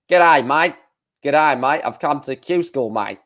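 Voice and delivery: a deliberately bad, hammed-up Australian accent; mock Australian accent, over the top; crap Australian accent. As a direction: play a cheesy Aussie greeting, badly faked Australian. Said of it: "that is a crap Australian accent".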